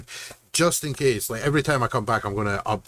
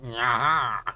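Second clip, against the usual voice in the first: nasal explorer laugh. Shown as a demonstration. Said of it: "It's really nasally voice".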